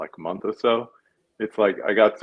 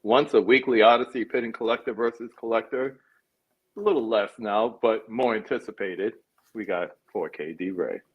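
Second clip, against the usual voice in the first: grand announcer intro; showing off. Acted. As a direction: boom it out like a ring announcer. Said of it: "I should have just read his intro".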